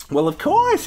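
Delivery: high creaky granny voice; old lady voice. Acted. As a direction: play a sweet old grandma. Grandma voiced in story.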